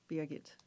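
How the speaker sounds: Beer get said as two words, like the name Birgit; name pronunciation demo. Shown as a demonstration. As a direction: Beer get, slow and low to teach the name. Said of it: "here's the trick. Say beer".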